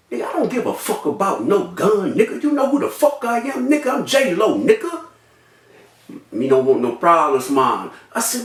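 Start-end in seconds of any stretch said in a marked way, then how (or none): 0.1-5.1 higher-pitched retold challenge; cocky confrontation. Shooting victim squares up to a gunman, cocky confrontation. Retelling his own angry confrontation. 6.3-7.9 low, backing-off reply voice; low-voiced gunman. Gunman says he wants no trouble, low voice.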